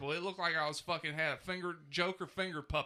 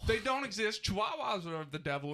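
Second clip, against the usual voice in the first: worked up; 5 semitones higher than usual. Real, not acted. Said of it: "He's so angry".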